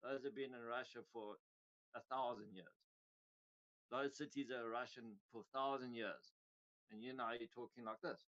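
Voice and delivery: low-pitched imitation of a composed minister; Lavrov. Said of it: "He said".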